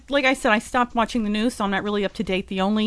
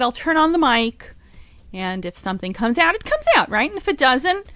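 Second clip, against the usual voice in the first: quoted self; 5 semitones higher than usual. Retold or imitated. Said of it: "But I said".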